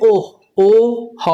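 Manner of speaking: ওহ split into ও then হ; sound by sound. Shown as a demonstration. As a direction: say ওহ, then O and হ one by one. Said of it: "O H এ কি উচ্চারণ হবে?". (ও আর হ আলাদা করে উচ্চারণ)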